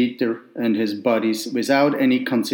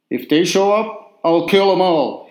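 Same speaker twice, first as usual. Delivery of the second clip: a lightly hammed-up operatic boast, higher; mock operatic bellow; 5 semitones higher than usual. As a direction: belt it out like a hint of opera. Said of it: "he bellowed in his best operatic voice".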